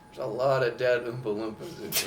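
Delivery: plain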